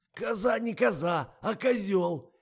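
high loud choking on laughs; barely holding laughter. A narrator's reading. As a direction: fight back a laugh. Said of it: "еле справившись с собой".

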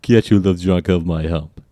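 slow, put-on Russian accent. Shown as a demonstration. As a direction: draw it out in a thicker Russian accent. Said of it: "Ah, that was better".

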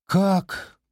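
plain reading voice

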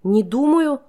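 put-on girl echoes the traitor in outrage; outraged. A narrator's reading. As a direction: fling his words back at him. Captive girl outraged at his answer.

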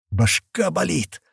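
медленно, со стоном; простонать от боли. Acted. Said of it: "простонал тот". (стонет от боли в голове)

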